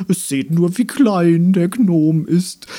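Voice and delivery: high, slow, breathy flower jeer; a little flower sneering at the gnome; calling flower. Acted. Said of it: "rief ein gelber Blumenkopf". (spöttisch rufende Blume, hoch)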